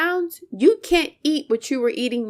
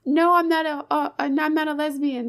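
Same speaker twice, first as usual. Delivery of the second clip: ordinary delivery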